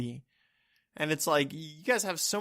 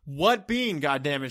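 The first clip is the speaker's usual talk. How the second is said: raised on the opening, acted frustration; exasperated retelling. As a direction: press the question with mock exasperation. Retold exasperated demand to baristas.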